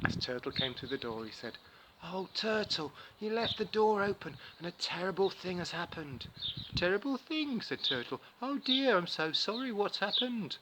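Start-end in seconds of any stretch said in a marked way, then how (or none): 2.0-6.3 a touch higher, mock-alarmed spider; Anansi. Anansi pretends disaster to Turtle, mock alarm. 6.7-7.6 much higher, startled question; surprised Turtle. Acted. Turtle hears of the terrible thing, startled. 8.4-10.6 much higher, louder sympathetic cry; concerned Turtle. Acted. Turtle comforts Anansi, high and concerned.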